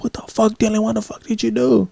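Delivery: high, incredulous scolding; scolding older brother, imitated. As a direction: voice the big brother demanding answers. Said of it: "older brother comes outside and he's like".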